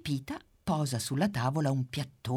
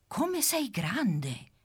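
much higher, slow, drawn-out wonder; amazed; 9 semitones higher, much slower than usual. Acted. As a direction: marvel at the huge bee. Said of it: "dice la pimpa".

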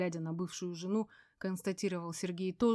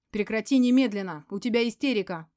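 firm command; 3 semitones higher, 8 dB louder than usual. A narrator's reading. Man stops hysterical woman.

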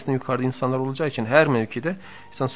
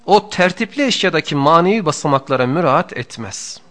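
louder, higher, measured reading of a sacred text; formal text reading; 5 semitones higher, 9 dB louder than usual. Acted. Teacher reading the book to his students, in a raised, formal reading voice. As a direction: recite the passage with weight. Reads the classic text aloud.

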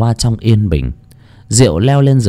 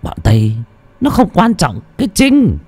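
put-on slurred old brute; 3 semitones higher than usual. A narrator's reading. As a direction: throw your power around, stretching the last words. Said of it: "giọng nói lè nhè vẫn vang lên".

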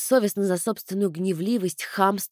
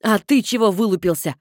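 angry snap; 5 dB louder than usual. Acted. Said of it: "Обрушилась я на иноземца".

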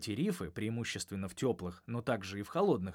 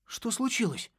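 irritated gurgle, much higher; gurgling alien voice; 12 semitones higher, 3 dB louder than usual. A narrator's reading. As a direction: bubble it out crossly. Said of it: "раздражённо пробулькал Нокс".

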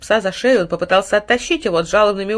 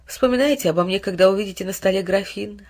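usual speaking voice

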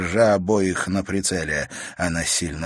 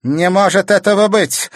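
doubtful; 11 semitones higher, 8 dB louder than usual. A narrator's reading. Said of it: "с сомнением проговорила она".

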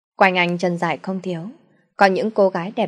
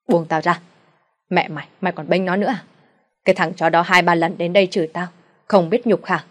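angry father; 4 dB louder than usual. Acted. Father shakes off wife.

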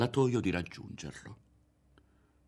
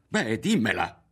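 louder, higher burst of impatience; shouted; 4 semitones higher, 6 dB louder than usual. A narrator's reading. Ario demanding that Berto tell him, shouted. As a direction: cry out in rebellion. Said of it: "gridò".

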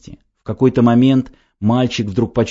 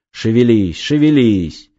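urgent shout; 4 dB louder than usual. Acted. Mentor urging boy in water.

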